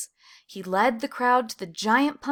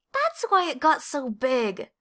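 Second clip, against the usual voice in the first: slow, slightly raised realization; Clayton realizing; 4 semitones higher than usual. A narrator's reading. Clayton to Desmond, understanding the giant pumpkin, slow realization. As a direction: let the penny drop slowly.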